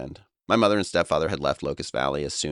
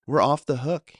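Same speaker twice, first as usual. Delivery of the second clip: much higher, louder confident reassurance; assuring; 11 semitones higher, 6 dB louder than usual. Retold or imitated. Friend reassuring a confused boy, loud and certain. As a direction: hammer home the good news. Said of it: "he assured me".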